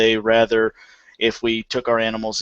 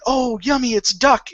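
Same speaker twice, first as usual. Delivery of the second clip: high-pitched imitation of eager children; excited kids; 13 semitones higher than usual. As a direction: play delighted kids spotting dinner, pitched up. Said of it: "they'll get all excited thinking".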